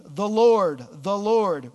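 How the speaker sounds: loud solemn proclamation of the name; ringing declaration of God's name; proclaimed. Acted. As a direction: announce the Lord, the Lord with force. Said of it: "and proclaimed".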